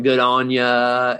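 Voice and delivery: slow, playful imitation of an Australian accent; mock Aussie saying. Host teasing his guest about Aussie slang, in a mock Australian accent. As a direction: drawl out the Aussie phrase with a grin. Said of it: "all the funny little sayings like".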